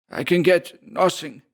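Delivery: plain reading voice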